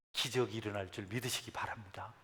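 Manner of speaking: breathy low whisper to the congregation; a hushed, intimate benediction; whispered blessing. Real, not acted. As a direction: lean in and whisper the promise.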